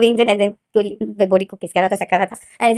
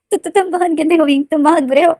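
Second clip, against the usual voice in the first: higher, hurt and scolding; high sulky scolding; 5 semitones higher than usual. Acted. To Wing after the night: high sulky scolding. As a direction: scold him like a sulking child.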